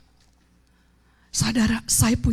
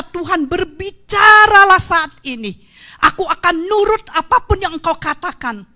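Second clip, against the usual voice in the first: earnest plea; 6 semitones higher, 7 dB louder than usual. Retold or imitated. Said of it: "Saya hanya berkata".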